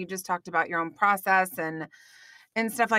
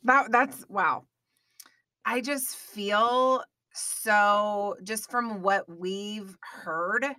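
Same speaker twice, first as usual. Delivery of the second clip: choked up; much slower than usual. Real, not acted. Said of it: "I need to get myself together".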